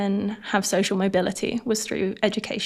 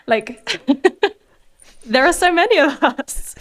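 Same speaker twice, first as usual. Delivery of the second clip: higher, louder, laughing through the words; laughing disbelief; 7 semitones higher, 5 dB louder than usual. Real, not acted. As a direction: laugh at how absurd it is. Laughing at grim realization.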